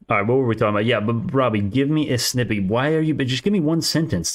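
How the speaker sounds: usual speaking voice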